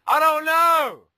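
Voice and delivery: slow high loud cry of I don't know; exasperated yell. Real, not acted. Player baffled by the opponent's stats yells slowly. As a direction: throw your hands up vocally.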